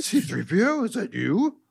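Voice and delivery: high, soft hopeful voice; mock-touched reunion question; tender recognition. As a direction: ask softly and high, scarcely believing it. Acting Vader recognizing his droid.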